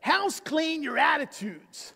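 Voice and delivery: put-on lightly done nasal Philly accent; Hendrix's Philly accent. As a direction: mimic Hendrix's annoying Philly accent, nasal on House clean. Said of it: "that really kind of nasally... annoying accent from Philly".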